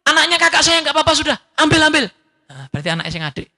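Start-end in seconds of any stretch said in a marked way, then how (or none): 0.0-2.1 put-on higher, pleading cry to spare the baby; a mother crying out to save her baby; desperate cry. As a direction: beg frantically, give the child away. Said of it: "langsung teriak".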